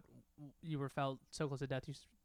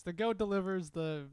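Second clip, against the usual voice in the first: mock Indian accent; slower than usual. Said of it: "I don't know how I'm doing the voice".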